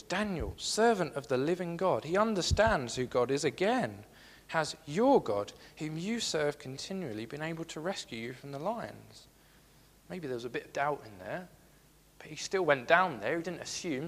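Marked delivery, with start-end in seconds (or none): 0.0-9.3 mild anguished call. Acted. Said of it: "in an anguished voice".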